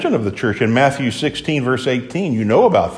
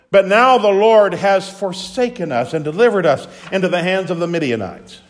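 demanding where the miracles went; complaining Gideon; 6 semitones higher than usual. Acted. Gideon asking the angel, aggrieved complaint. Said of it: "listen to what he asks".

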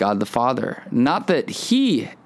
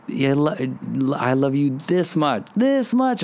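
emphatic affection; 3 semitones higher than usual. Retold or imitated. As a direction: tell a child your love is huge, pitch rising. Dad outdoing daughter, stretching arms wide.

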